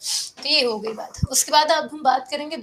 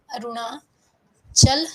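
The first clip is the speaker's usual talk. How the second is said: drawn out slowly; 4 dB louder, much slower than usual. Shown as a demonstration. Teacher drawing out place name.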